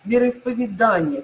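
Вероисповедание with stress on ДА; second option: stress on А. Shown as a demonstration. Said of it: "Е или А?". (вероисповедАние)

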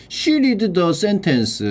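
very slow and deliberate; slow careful English; slow model reading. Shown as a demonstration. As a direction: read it out slowly for the class. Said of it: "slow reading of example".

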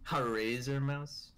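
slow, scoffing repeat of the question; mocking disbelief. Shown as a demonstration. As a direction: drag it out like it's a joke.

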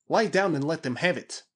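high urgent battle order; rally men under fire; Krasky crying out. A narrator's reading. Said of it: "cried Krasky".

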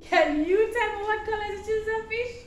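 put-on upbeat children's presenter; kids show host. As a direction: cheer the kids along like TV. Teacher hosts children's lesson.

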